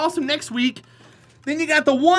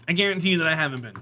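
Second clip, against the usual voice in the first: deadpan aside; 7 semitones lower, much faster than usual. Real, not acted. Comic repeating his boast as a quick lower aside. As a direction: mumble it again under your breath. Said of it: "'cause I guarantee you that I haven't been".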